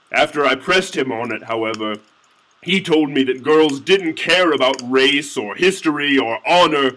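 usual speaking voice

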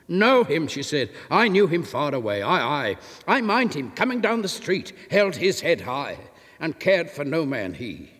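light up remembering him; animated fisherwife remembering proud Enoch; eager recollection. Acted. Miriam recalls proud Enoch.

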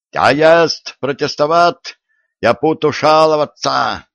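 hoch, lauter Protest mit deutschem Akzent; deutscher Akzent. Acted. German dragged out, protesting.

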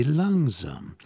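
drawn-out, falling call; calling to slow down. A narrator's reading. Girl checks the man's eager outburst, calling out. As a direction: draw it out to slow someone down. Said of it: "rief sie".

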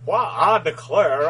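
slow southern rooster drawl, stretched out; a hint of a blustery cartoon rooster; Foghorn Leghorn drawl. Co-host starting a bad Bill Clinton, slow drawling Foghorn Leghorn. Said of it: "Bill Clinton and Foghorn Leghorn are the same character".

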